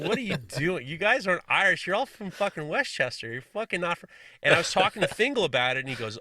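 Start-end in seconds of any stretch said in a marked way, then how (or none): 0.0-4.1 higher-pitched mock exasperation; retold indignant challenge. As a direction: call them out in mild disbelief. Retells challenging fake Irish partygoers.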